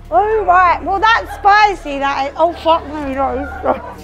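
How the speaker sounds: burning-mouth, breathy exclamations; mouth full of hot food. Real, not acted. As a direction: talk through chili burn. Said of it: "My mouth is on fire".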